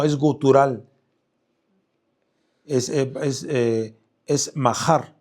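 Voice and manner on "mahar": mahar with the stress on the a and a guttural h; stressed Hebrew word. Shown as a demonstration. Preacher drills the stress of mahar for listeners, guttural h. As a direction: lean on the a of mahar, throaty h. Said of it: "es acento en la, en la A".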